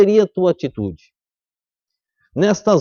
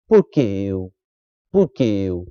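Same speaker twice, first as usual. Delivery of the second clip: whining complaint; 10 semitones lower, 4 dB quieter, slower than usual. Acted. Preacher mimics complaining believers.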